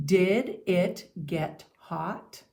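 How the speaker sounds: "Did it get hot?" very slow, rising on "Did" and at the end; question tune. Shown as a demonstration. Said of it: "Say it with me".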